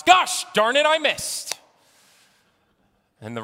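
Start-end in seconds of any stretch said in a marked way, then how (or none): 0.0-1.6 loud, high golfer's yell; frustrated shout. Acted. Golfer yells at his ball, high and loud. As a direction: yell it at the missed shot. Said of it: "The congregant shouts".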